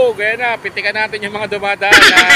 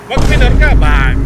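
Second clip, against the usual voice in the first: calling out; 3 semitones higher, 9 dB louder, slower than usual. Real, not acted. Calling to passing car.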